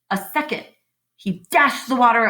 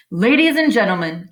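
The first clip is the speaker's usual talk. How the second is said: louder announcer call to the crowd; announcing loudly; 5 dB louder than usual. Acted. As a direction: address the fair crowd, louder. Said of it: "continued the loudspeaker".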